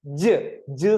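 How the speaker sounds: isolated "ജ്", a j with a short neutral vowel; teaching demo of the j sound "ജ്"; letter sound ജ്. Shown as a demonstration. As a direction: say "ജ്" as a clear phonics sound. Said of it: "ജെയുടെ ശബ്ദം എന്താ".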